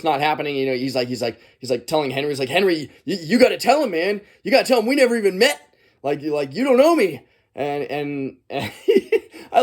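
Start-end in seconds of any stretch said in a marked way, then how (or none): 2.5-7.2 mock plea, pitched up and urgent; retold pleading. Ash begging Henry to tell them they never met, mock pleading. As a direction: plead your case, voice climbing.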